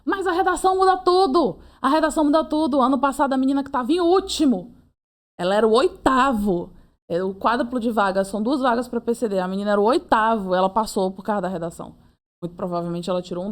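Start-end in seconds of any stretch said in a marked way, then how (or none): 0.0-11.9 insistent protest. Retold or imitated. Arguing with her friend about the essay grade, emphatic and raised. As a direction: insist the essay changes everything. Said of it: "Eu disse".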